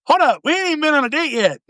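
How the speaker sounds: half-laughing can't believe it; incredulous protest. Retold or imitated. Indignant retold protest.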